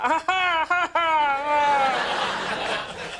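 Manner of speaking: Penny laughing it off; mock laugh. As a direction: fake hearty laugh. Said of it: "She went".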